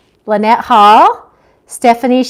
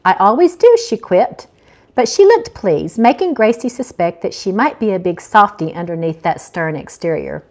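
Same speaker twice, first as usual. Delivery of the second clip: reading her novel aloud, lightly voicing each character; an author narrating her own chapter to listeners; story narration. A narrator's reading. Author reads chapter one to her online audience, storytelling voice.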